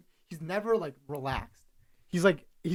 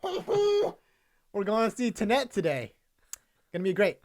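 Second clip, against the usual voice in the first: lightly voiced over-eager star, a hoot up high to start; Tom Cruise impression; 3 semitones higher than usual. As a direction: hype it up like a grinning movie star. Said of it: "he kinda has that sound".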